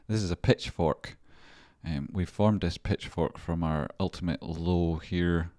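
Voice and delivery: walk viewers through the chart like a host; presenter read. Acted. Presenting the chart analysis to viewers, host style.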